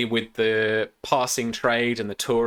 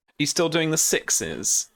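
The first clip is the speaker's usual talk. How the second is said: higher posh hipster customer; a hint of smug posh hipster; 6 semitones higher than usual. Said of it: "Posh hipster wanker voice".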